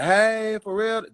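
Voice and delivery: high, drawn-out character voice; Wanda. Acted. Comedian reviving a TV character, high drawn-out voice. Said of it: "it was the Wanda".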